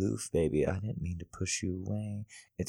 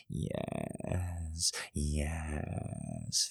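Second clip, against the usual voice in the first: whisper; 2 semitones lower, 7 dB quieter than usual. Acted. Whispered aside.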